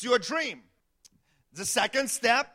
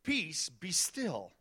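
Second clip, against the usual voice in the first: calm command; 6 semitones lower, 8 dB quieter, much slower than usual. Acted. He says.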